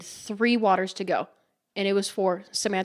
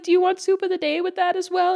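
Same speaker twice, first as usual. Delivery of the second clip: higher, gentle waitress offer; sweet server voice; 8 semitones higher than usual. Retold or imitated. Server offering soup to old regular, high sweet voice. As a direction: offer it fondly in a raised voice.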